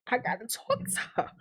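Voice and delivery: very soft mimicry of a stunned woman; imitated weak murmur. Imitating Keisha needing to confront Tiffany, feeble. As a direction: say it faintly, as if overwhelmed.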